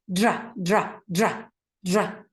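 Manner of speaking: dra said with a firm, strong d. Shown as a demonstration. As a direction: hit the d in dra hard. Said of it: "It's strong".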